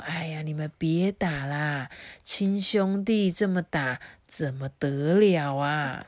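put-on slow, fretful old woman's voice; an old mother tugging at her fighting sons; pleading old mother. Old mother begging her sons to stop fighting, fretful pleading.

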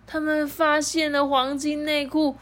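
high, loud wail of dismay, easing slightly; high-pitched storybook alarm with drawn-out words; alarmed exclamation. A narrator's reading. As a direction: cry out in hammed-up pirate panic. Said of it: "海盗们惊呼".

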